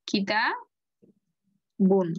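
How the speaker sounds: কিতাবুন in two slow, separated parts; drawn-out tanween. Shown as a demonstration. Teacher demonstrates the ending sound, drawn-out tanween. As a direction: draw out কিতাবুন very slowly, "kitaa... bun". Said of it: "তানবিন আছে".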